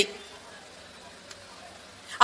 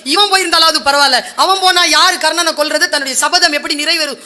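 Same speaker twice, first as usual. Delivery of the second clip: crying Draupadi; 3 semitones higher, 3 dB louder than usual. Acted. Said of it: "ஐயோ அழுவுறா திரௌபதி".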